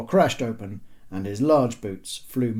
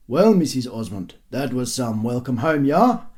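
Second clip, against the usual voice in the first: father's remark; 2 semitones higher, 6 dB louder than usual. A narrator's reading. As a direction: remark it to the wife, swooping up on the last word. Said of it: "remarked the father".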